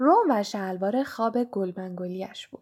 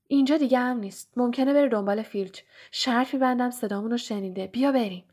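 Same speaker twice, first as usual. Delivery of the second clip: urgent Ron; 3 semitones higher than usual. Acted. Ron pulling Harry away from the room, hurried. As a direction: hurry your friend out, nervously.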